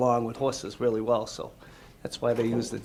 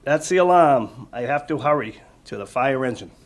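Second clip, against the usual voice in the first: put-on reading to children; 5 dB louder than usual. Reading the book aloud.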